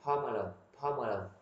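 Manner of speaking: "Pomelo" with a round o in the first syllable; corrected pronunciation. Shown as a demonstration. Teacher corrects the dictionary for learners, round-o pronunciation. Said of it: "đọc lớn quá".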